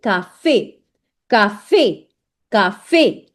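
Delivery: café repeated carefully as "ka-fay"; model pronunciation. Shown as a demonstration. Teacher drilling learners on the accent, café clearly as "ka-fay". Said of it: "make sure that you read it like".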